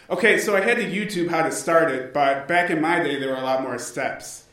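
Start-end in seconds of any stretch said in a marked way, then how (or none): 2.1-4.4 lightly voiced old-school dad; a hint of a grumbling dad. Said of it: "Didn't I sound just like a dad there?".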